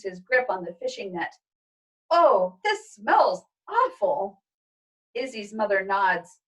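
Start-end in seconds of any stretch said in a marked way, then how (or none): 2.1-4.4 slow, drawn-out disgust. Acted. Father smelling the fishing net, slow disgusted groan. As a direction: recoil from the stink.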